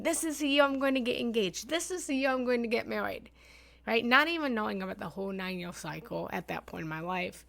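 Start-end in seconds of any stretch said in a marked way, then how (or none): 0.0-3.3 hopeful inner voice. Retold or imitated.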